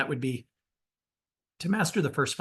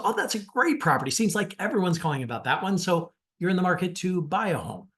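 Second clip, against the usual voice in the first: each line ends on a confident downswing; falling inflection; 4 semitones higher than usual. Shown as a demonstration. Coach demonstrating the agent's opening line with downward inflection. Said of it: "I'm gonna downswing with my inflection".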